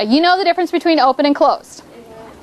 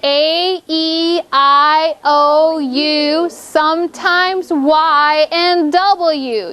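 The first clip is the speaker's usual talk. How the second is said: measured, evenly spaced recitation; recited vowel ditty; much slower than usual. Shown as a demonstration. Teacher reminds pupils of the vowel poem, reciting it steadily. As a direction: recite it like a classroom mnemonic, one letter at a time. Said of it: "your little ditty about the vowels".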